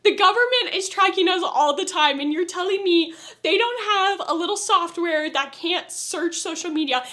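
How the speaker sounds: half-laughing exasperated "bro" rant; retold rant. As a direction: tell the show off like a frustrated friend. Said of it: "I was like".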